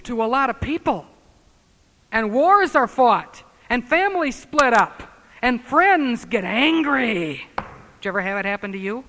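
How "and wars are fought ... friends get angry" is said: loud, slow pulpit cadence; slow fiery sermon build; preaching at full force. Acted. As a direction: hammer each line slowly to the congregation.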